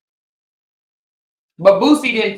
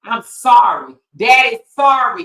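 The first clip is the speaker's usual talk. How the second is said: mock apologetic dad. Mocking a rapper apologizing to his daughter, pleading voice. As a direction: ham up a father's plea. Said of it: "a rapper said".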